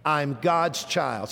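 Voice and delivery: slow, measured repeat for others to echo; leading recitation. Shown as a demonstration. Preacher has the congregation say it again, slow recitation. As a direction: say it slowly so everyone can join. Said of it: "Say it again".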